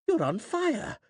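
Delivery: high alarmed yell. A narrator's reading. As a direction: yell the warning at her. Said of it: "he yelled".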